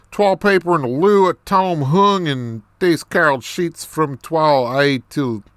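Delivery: rough attempt at an Irish brogue; Irish accent. Reader performing a story written in dialect, Irish accent. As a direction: read it out in a put-on Irish lilt. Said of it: "more of this Irish accent".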